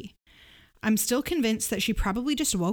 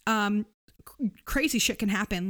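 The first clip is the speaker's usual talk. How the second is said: whispering. Real, not acted. Dramatic aside.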